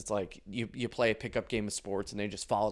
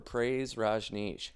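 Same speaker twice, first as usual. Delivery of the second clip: mock devotion; 3 dB quieter, much slower than usual.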